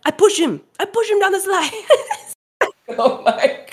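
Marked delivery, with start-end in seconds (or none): 0.1-1.9 high, laughing retold confession; high giggly imitation of the woman; mock confession. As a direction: blurt it out gleefully. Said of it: "she just said".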